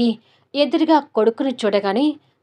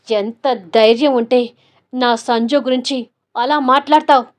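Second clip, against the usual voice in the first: louder furious yell; angry shout; 4 dB louder than usual. Acted. Son yells at Sheela for insulting his wife, loud. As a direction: shout her down in rage. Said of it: "గట్టిగా అరుస్తున్నాడు".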